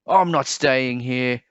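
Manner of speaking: understated wail of protest; wailing duck. A narrator's reading. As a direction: complain like a hurt duck. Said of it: "wailed the duck".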